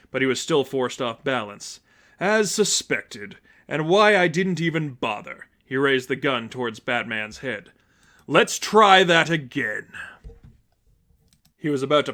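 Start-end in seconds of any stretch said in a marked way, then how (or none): 2.2-5.5 condescending. Acted. Seraphim mocks Batman. 8.3-9.9 slow, louder menacing taunt; slow menace. Acted. Seraphim aims at Batman's head, slow and menacing.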